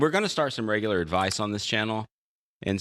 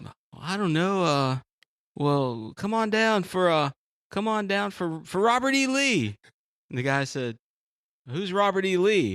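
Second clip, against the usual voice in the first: Southern joke voices; 8 semitones higher, slower than usual. Retold or imitated. Dialogue in a joke.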